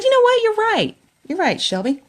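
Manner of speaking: very high, loud, choked voice; telling her daughter she's right, choked up; emotional quoted reply. Retold or imitated. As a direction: voice breaking as she tells her daughter. Mother quoting herself to daughter.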